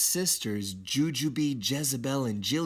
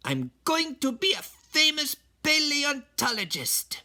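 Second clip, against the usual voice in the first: put-on high, eager kid voice; excited kitten; 14 semitones higher than usual. Skippy telling Mama his dream, high and excited. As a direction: boast about his big dream. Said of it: "he said".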